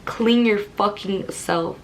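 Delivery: slow, drawn-out harsh order; mock harsh command. Imitating the boyfriend's slow, nasty order in the car. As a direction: spell out each word like a cold demand. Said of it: "It was, like".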